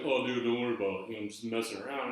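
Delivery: mock dismissive brush-off. Manager laughs off the hit.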